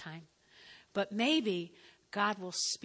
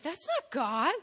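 firm correction; 6 semitones higher, 4 dB louder than usual. Retold or imitated. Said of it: "And I was like".

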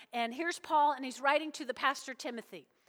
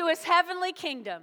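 raised-voice rallying proclamation; loud declaration; 3 semitones higher, 3 dB louder than usual. Shown as a demonstration. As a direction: lead the congregation, projecting every word. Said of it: "Say it so loud".

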